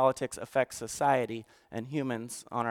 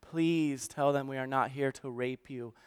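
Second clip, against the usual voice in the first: retold tearful plea; 6 dB quieter than usual. Refugee begging listeners to believe him, retold in subdued sorrow. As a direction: quietly retell a sobbing man's plea. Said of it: "barely able to get these words out".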